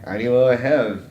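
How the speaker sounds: slow, halting Hebrew; slow halting Hebrew attempt. Shown as a demonstration. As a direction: stumble through Ani lo have like a struggling learner. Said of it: "when I start speaking in my Hebrew, I'm like".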